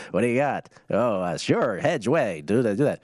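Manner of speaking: lightly voiced old-timey switchboard operator; a hint of a fast-talking oldtime phone man. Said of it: "speaking in an old-timey voice".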